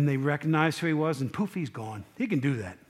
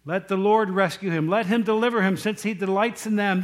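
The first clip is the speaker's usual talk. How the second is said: louder preacher's version of a jeering crowd; mock yelling; 3 semitones higher, 4 dB louder than usual. Crowd yelling at Jesus on the cross, raised mock yell. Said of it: "what the people are yelling".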